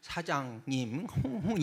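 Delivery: put-on nasal cooing; nasal coquettish sound. Shown as a demonstration. Preacher demonstrating a hostess's nasal sound, nasal cooing. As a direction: coo through the nose like a hostess. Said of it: "코 먹은 소리는".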